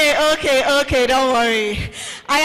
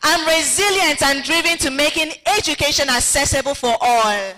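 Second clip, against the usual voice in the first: a touch of confident, raised declaration; with conviction; 2 semitones higher than usual. Shown as a demonstration. Host leading group affirmations with mild conviction. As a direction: proclaim each line as a belief. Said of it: "We must say these affirmations".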